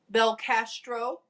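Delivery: Belcastro with the Castro part leaned on and rising; mocking stress on castro in Belcastro. Shown as a demonstration. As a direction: dwell pointedly on the castro in Belcastro. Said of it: "emphasis on the Castro".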